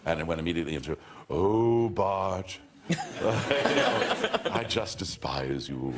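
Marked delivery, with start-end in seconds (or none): 1.3-5.9 slow, cultured, theatrical sneer; Sideshow Bob voice. Acted. Sideshow Bob sneering at Bart, slow and cultured. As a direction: savour the contempt, slowly. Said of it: "This is Ellis Rabb".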